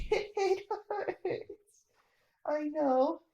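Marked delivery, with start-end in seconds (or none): 0.1-1.8 a breaking, sobbing cry of pain. Acted. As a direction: sob it out, crushed and hurting. Trapped child in pain.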